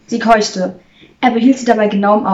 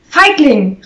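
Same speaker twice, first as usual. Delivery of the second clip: loud, higher-pitched jeer; raised-voice accusation; called-out insult; 5 semitones higher, 6 dB louder than usual. A narrator's reading. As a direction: call it out as a taunt. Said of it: "rief sie".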